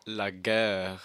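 "La guerre" with a French vowel and R; "La guerre" in French, hard G; French pronunciation. Shown as a demonstration. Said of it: "what is the French word for war".

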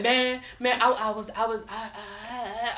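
repeated false starts that stall; imitated stutter. Mimicking a friend caught lying, stuttered false starts. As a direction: imitate a stutterer stuck, fading on the last syllable. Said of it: "used to stutter real bad".

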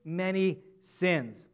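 slow, deliberate verse read; scripture reading. Shown as a demonstration. Preacher quoting a verse to congregation, slow and measured. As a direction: read the line slowly and clearly. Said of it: "another verse says it this way".

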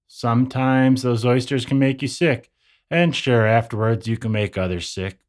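put-on folksy, easygoing old-time New Yorker; lightly voiced cheerful local. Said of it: "a New Yorker around the turn of the twentieth century".

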